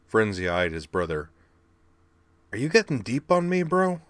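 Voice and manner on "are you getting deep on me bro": put-on high cocky kid voice, doubtful; skeptical. Frenzy doubting his brother, high skeptical teasing. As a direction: raise a sceptical eyebrow, brash. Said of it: "he asked skeptically".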